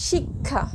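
শিক্ষা said as shikkha, with kh sound; teacher modelling শিক্ষা as shikkha; pronunciation demo. Shown as a demonstration. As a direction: spell out শিক্ষা slowly as shikkha. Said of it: "দেখো".

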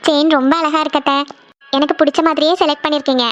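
cheered-up, smiling gratitude; smiling thanks. Acted. Daughter-in-law repeating her thanks on request, smiling. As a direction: say it with a smile after the tears. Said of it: "கொஞ்சம் சிரிச்சுட்டே தான் சொல்லம்மா".

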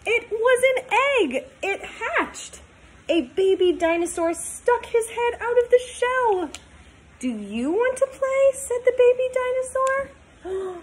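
put-on storybook read-aloud for kids; reading to children. Teacher reading a picture book to her class, storytime voice.

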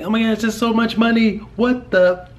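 mock outrage over the price; shocked at price. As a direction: gasp at the cost like a shopper.

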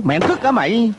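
high-pitched, heated insult and order; worked-up bullying outburst; angry demand. Acted. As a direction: demand it angrily, pitch climbing. Acted quarrel, demanding the key.

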